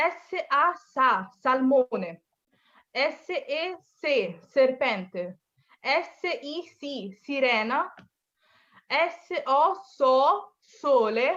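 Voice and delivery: deliberate Italian spelling drill, each letter, syllable and word set apart; syllable-by-syllable demo. Shown as a demonstration. Teacher has learners listen to the pronunciation, syllable-by-syllable demo. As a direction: spell out "এস এ আ সা", then say "salmone" whole, emphatically. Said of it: "আমার উচ্চারণটা যদি আপনারা শুনেন".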